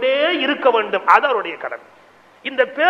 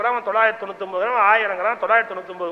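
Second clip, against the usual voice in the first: rapid mimicry; 3 semitones lower, much faster than usual. Crowd mimics the haggling.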